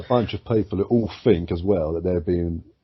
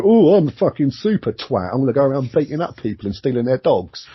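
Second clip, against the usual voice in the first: higher, louder hammed-up superhero boast; mock vigilante bravado; 6 semitones higher, 5 dB louder than usual. Mocking a vigilante in his underpants, hammed-up higher and louder. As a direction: puff it up like a cocky wannabe superhero. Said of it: "and go".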